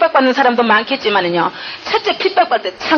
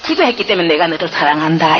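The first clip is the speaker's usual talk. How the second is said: raised, tender divine voice easing down; Jesus comforts the praying wife, raised then settling. Retold or imitated. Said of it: "그 장면까지 다 보여주시는 거예요".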